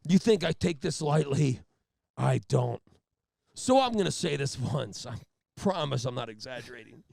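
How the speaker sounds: loud, deliberate speech broken by pauses; mock self-important trooper, milking every pause; Jack Nicholson. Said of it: "like he's Jack Nicholson".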